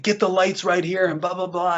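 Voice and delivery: half-volume impression of a swearing boss; retold cussing director. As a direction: imitate a director cussing out orders. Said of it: "And he's cuss-, you know, he's cussing".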